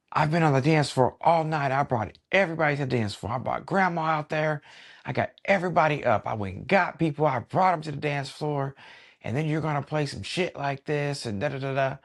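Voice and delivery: high-pitched mock rant of an upset guest; angry guest rant. Guest complaining to the DJ about the music, high mock whine.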